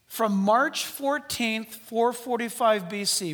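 slow, deliberate, spelling out "March fourteenth"; slow dictation. Shown as a demonstration. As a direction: say it slowly so they write it down. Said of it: "write it down".

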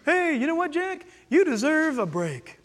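Satan as your own friendly thought; casual inner voice. Acted. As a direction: talk smoothly and casually, like a self-indulgent thought. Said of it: "It sounds like me".

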